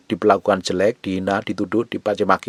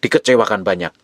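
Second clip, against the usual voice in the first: normal talking voice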